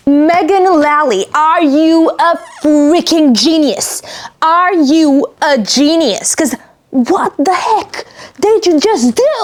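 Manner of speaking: slow, astonished praise; amazed. Real, not acted. Reader asking the author in awe, slow and astonished. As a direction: marvel at her genius.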